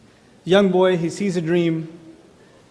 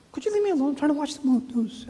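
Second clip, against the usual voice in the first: higher, exasperated brush-off; a hint of a whiny, annoyed dad; irritated father; 7 semitones higher, 5 dB quieter, faster than usual. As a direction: push the kid away, fed up. Tired father brushing off child.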